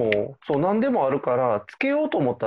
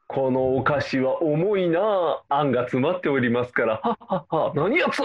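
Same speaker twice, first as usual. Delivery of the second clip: period drama official. Pretend. Period drama bribe scene.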